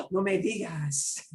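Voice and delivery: gasping, amazed reply; gasp of surprise. Shown as a demonstration. Teacher playing friend hearing of hole in one, amazed. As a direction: react to big news. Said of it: "I got a hole in one".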